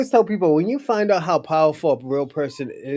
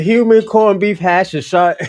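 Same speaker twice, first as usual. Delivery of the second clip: loud, high, amused burst; blurting the wild line out with glee; excited; 5 semitones higher, 9 dB louder than usual. Real, not acted. Telling a friend the shocking scene, loud and excited. Retelling the crazy movie line.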